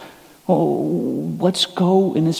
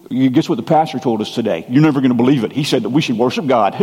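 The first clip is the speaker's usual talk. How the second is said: low, quick mock-scandalized report; mock astonishment; 5 semitones lower, faster than usual. Churchgoer passing on the pastor's obvious message, mock-amazed. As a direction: feign disbelief at old news.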